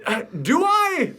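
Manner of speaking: slow, high, mock-doubtful question; sarcastic. Real, not acted. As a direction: raise an eyebrow at it. Mocking the imagined objection.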